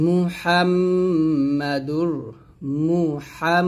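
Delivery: মুহাম with a long hummed m; nasal ghunnah hold. Shown as a demonstration. Teacher showing ghunnah on হাম, sustained humming m. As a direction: hold the m in মুহাম through the nose. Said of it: "এখানে হাম গুণ করবেন".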